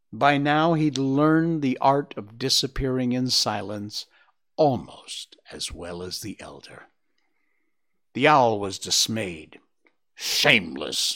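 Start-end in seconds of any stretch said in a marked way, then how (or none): 10.2-11.2 grumbled, lower voice. The owl, left without a reply, grumbles. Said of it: "he grumbled".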